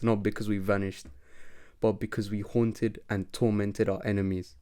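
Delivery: lightly voiced villain, quiet and smug; a hint of villain voice. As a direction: taunt the old partner softly. Villain monologue to Ethan's friends.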